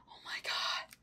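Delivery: whispered awe; soft, breathless disbelief; stunned whisper. Real, not acted. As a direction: whisper it, lost for words. Speechless at the gift.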